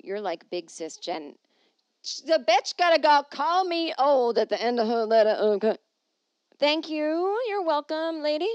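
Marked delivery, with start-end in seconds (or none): 2.0-5.8 loud, high, indignant rant; raised-voice comic indignation; mock outrage. Mock outrage at being called old. 6.6-8.5 high, loud, put-on politeness; exaggerated high-pitched courtesy; mock gracious. Answers letter writer mock-indignantly.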